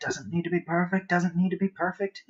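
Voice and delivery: mock crazy mantra. Shown as a demonstration. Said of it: "he says like a crazy person".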